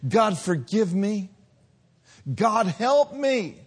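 a hint of desperate crying out to God; understated begging prayer; pleading prayer. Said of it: "And you cried out".

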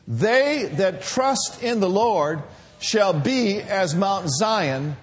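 slow, deliberate reading aloud; scripture reading. Acted. Pastor reading psalm with the church, slow reading. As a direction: draw out each word of the verse.

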